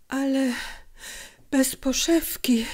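sick mother's faint, whispered words; barely manage the words; weak voice. A narrator's reading. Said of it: "odezwała się słabym głosem matka". (słaby, szepczący głos chorej matki)

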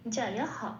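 "জায়াহ" as ja-ya-ha; full final ha. Shown as a demonstration. Teacher showing the line-end rule, "জায়াহ" ending in a full ha. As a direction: sound the visarga in "জায়াহ" as a full ha. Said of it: "সেই হটাকে হ বলে উচ্চারণও".

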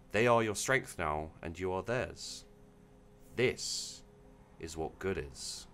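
soft, measured storytelling; story narration. A narrator's reading. Reader closing a story for the stream chat, measured narration. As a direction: read it gently, with weighty pauses.

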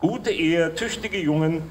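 measured, declaimed verse with pauses; formal light-verse reading; poem recitation. Acted. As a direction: recite the rhymes line by line, deliberately.

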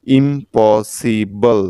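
ইম্পসিবল very slowly, split as ইম-প-সি-বল; syllable-by-syllable pronunciation. Shown as a demonstration. Teacher joins the spelled pieces for learners, ইম্পসিবল slow and segmented. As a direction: stretch ইম্পসিবল into four separate syllables. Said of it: "একইভাবে দেখুন".

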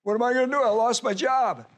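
mock the anxious complainer lightly; worried believer.

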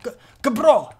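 stumbling attempt at a fake accent; badly faked accent on Gabro; put-on accent. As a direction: try the accent, tripping on the first sound. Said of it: "say it with an accent".

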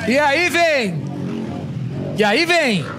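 building excited race call; motorsport commentator. Real, not acted. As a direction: call the finish as it approaches. Calling the leader coming in.

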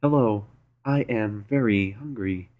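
slow monotone robot voice. Retold or imitated. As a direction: speak like a stiff robot. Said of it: "That was really robotic".

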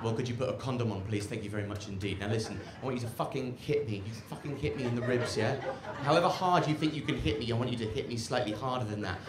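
lightly voiced insistent lover; soft quoted demands, a touch low; a hint of an urgent lover; woman's insistent request. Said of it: "she said to me".

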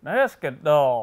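tight jaw, lips barely moving, slow; ventriloquist voice. Shown as a demonstration. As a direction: say it like a ventriloquist with a stiff mouth. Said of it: "I wanna hear you say basketball".

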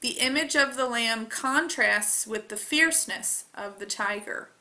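ordinary delivery

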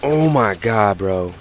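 loud, indignant outburst at a teammate; exasperated rant. Real, not acted. Gamer fuming at the teammate who blocked him, exasperated. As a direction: rant heatedly, punching out the complaint.

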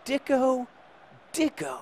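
a playful chant that winds down; savouring the word. Real, not acted. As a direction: taste the word over and over. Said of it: "that I love saying".

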